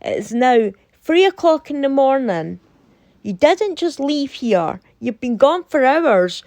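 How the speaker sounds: imitating a stern, scolding friend. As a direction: lay it down like a stern mum catching you out late. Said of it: "took a stern voice to me".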